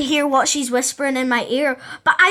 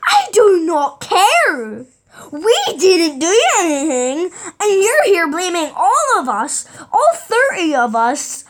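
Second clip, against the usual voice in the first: slow, loud, laughing shout; furious outburst; 4 semitones higher, 4 dB louder, slower than usual. Retold or imitated. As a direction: yell it at her through laughter. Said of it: "And I'm like".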